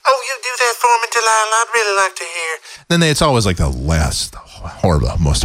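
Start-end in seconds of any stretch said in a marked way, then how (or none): 0.1-2.8 higher, fast, breathless gushing caller. Retold or imitated. A thrilled caller thanking Delilah, higher and fast. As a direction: squeal it like an eager fan. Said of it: "she has them on".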